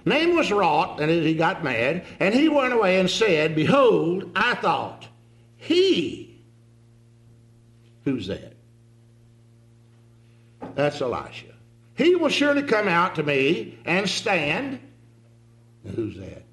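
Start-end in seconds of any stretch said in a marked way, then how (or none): 0.1-6.4 louder, heated reading of a proud man; indignant Naaman reading. Shown as a demonstration. Preacher reads scripture in angry Naaman's voice, heated. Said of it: "read this the way I think Naaman's thinking about it". 11.9-14.8 slow, loud, offended reading; indignant Naaman. Shown as a demonstration. Preacher voices Naaman's proud expectation, slow and heated. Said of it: "the way I think Naaman's thinking".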